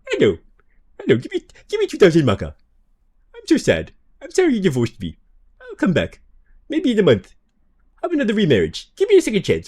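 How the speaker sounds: high pleading sad voice; cracking tearful heartbreak. Pretend. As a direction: beg tearfully, voice going high. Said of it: "your sad voice almost turned into your Inugami voice".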